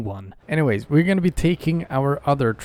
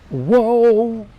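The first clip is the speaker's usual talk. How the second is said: sudden loud high yelp; startled whoa; 11 semitones higher, 8 dB louder than usual. Real, not acted. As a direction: yell it, caught off guard. Truck suddenly lurches.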